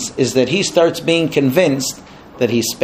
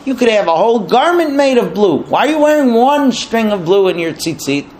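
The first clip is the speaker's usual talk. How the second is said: higher, incredulous wifely challenge; egging on; 5 semitones higher than usual. Acted. Wife mocks Korach's single blue string, incredulous. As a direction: press him with a scoffing question. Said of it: "starts egging him on against Moshe".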